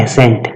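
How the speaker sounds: "एसेंट" with a plain s sound, no k; clear word demonstration. Shown as a demonstration. Teacher contrasting two similar English words, "एसेंट" said without k. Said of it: "एसेंट का मतलब होता है agree होना".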